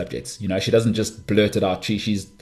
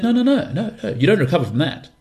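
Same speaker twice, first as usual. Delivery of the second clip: mother's insistence; 8 semitones higher than usual. Retold or imitated. Retelling mum's insistence.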